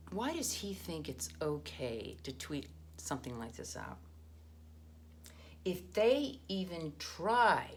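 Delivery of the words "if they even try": louder and slow, reading capitals aloud; all caps. Retold or imitated. Reading a scholar's tweet to listeners, loud and slow. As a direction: give the all-caps words weight, slowly. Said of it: "all caps".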